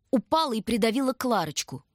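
ordinary delivery

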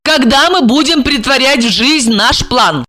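high-pitched warning; threatening woman. A narrator's reading. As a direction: give a pert ultimatum in a high voice. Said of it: "пригрозила она".

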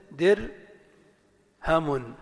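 درهم very slowly as dir...hamun; syllable-by-syllable. Shown as a demonstration. Teacher gives example word, slowly split by syllable. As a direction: split درهم after the silent r. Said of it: "الدال مكسورة".

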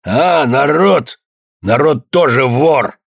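slow, strained furious rasp; hoarse wheeze. A narrator's reading. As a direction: croak it out trembling with rage. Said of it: "прохрипел".

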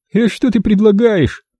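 high, indignant challenge; indignant thug. A narrator's reading. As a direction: protest the idea. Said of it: "возмутился Евнух".

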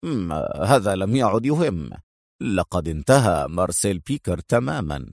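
low, composed finality; calm. Acted. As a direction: state it plainly and low. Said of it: "في هدوء".

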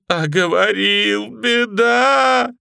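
high, loud, slow howl. A narrator's reading. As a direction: wail it out in despair. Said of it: "Лапоть завывал". (завывает протяжно)

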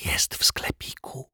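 slow, secretive whisper. A narrator's reading. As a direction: whisper it covertly, drawn out. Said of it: "szepnął szyld". (powolny, konspiracyjny szept)

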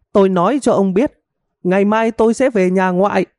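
high, theatrical wailing lament; hammed-up wife's tearful complaint. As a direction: wail like a wronged wife, pitched far up. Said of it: "chỉ đang giả vờ giả vịt".

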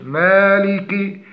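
مالك with thin m and front long a; light mim. Shown as a demonstration. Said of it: "ترقيق الميم ومن ثم الألف". (مالك بترقيق الميم والألف)

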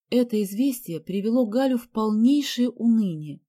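ordinary delivery, nothing marked

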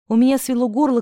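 ordinary delivery

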